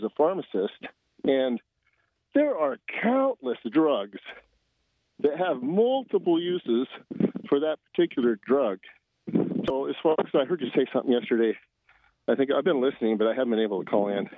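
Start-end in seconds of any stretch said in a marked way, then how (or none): 2.3-14.3 out of breath. Real, not acted. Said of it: "Sorry, I'm out of breath 'cause I had to climb a ladder".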